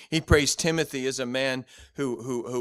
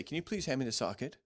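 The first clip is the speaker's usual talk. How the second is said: polite request; 6 dB quieter, faster than usual. Shown as a demonstration. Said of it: "I need to say".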